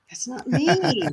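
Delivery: high, drawn-out mock protest; retold protest. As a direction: stretch it out in playful objection. Retold protest at being told look sexy.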